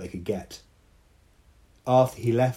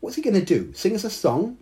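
laughing scorn; 13 semitones higher, 4 dB louder than usual. A narrator's reading. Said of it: "Dao laughed".

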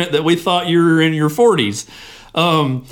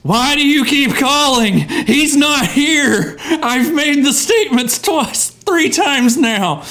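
exasperated; 6 semitones higher, slower than usual. Acted. Host exasperated by repeat caller.

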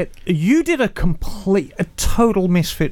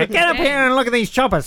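snake oil seller; 6 semitones higher, faster than usual. Retold or imitated. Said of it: "There was, like, a Carney Barker there".

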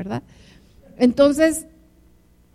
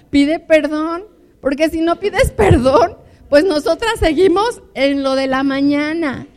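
real laughter through the words; laughing; 4 semitones higher, 8 dB louder than usual. Real, not acted. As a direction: laugh as you say it, loud and amused. Laughs over own advice.

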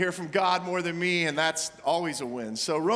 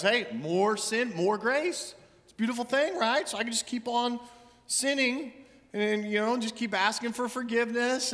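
mock careless Christian; 4 semitones higher than usual. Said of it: "sometimes the philosophy of some Christians".

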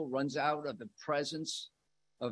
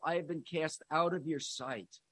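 heavy, softer; 5 dB quieter than usual. Acted. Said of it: "that's heavy".

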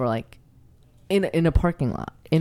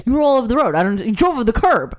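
mock angry cop; 5 semitones higher, 4 dB louder, faster than usual. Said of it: "He's like".

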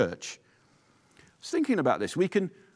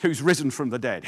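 proclaimed; 2 semitones lower than usual. Shown as a demonstration. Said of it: "I want to say to you".

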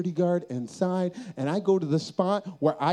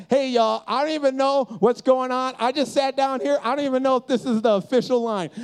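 raised, higher acted call-out; calling to a crowd; 4 semitones higher, 4 dB louder than usual. Man warning the line behind him, acted call-out. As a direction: protest loudly to those behind, retold.

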